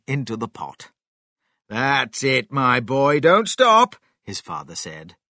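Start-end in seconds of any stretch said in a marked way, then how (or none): 1.7-4.0 rising, louder encouragement; urging on. Acted. Father cheers his son on at the pot, building excitement. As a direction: egg him on, building to a high loud finish.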